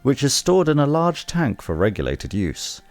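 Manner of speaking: informative tour guide read. Pretend. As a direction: narrate it like a museum guide. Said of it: "my tour guide voice".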